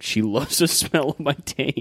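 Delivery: mock quote broken by a laugh; giggling out a retold thought; laughing through a quote. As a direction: laugh midway through "She loves the smell of my taint". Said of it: "I was like".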